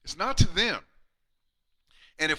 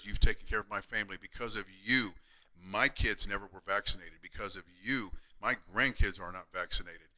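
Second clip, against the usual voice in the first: moved retelling; 6 semitones lower than usual. Retold or imitated. Patient thanking the chiropractor for his family, hushed. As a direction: let the gratitude soften it.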